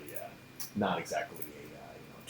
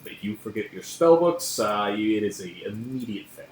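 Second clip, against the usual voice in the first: lecturer dismissing class; 4 dB louder than usual. Acted. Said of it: "He's like".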